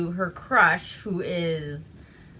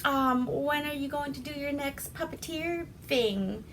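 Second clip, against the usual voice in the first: put-on gushing girl; 7 semitones higher than usual. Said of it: "So Lucille's all like".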